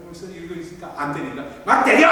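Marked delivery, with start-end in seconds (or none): 1.6-2.1 sudden loud shout, much higher; shouting hit me. Retold or imitated. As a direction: bark the order out loud. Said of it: "소리 딱 지르는 거예요".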